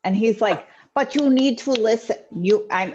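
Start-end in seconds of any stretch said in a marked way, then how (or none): 0.9-2.2 higher, forceful attempt at an Italian mafia accent. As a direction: take a rough stab at an Italian mobster accent. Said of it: "typical Italian mafia guy".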